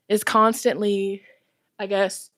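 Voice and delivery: winded, halting words; short of breath while talking. Real, not acted. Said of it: "not me being out of breath".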